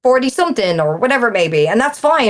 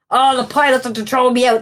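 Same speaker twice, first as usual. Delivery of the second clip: whiny mock quote; 3 semitones higher than usual. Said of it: "typing away and whinging".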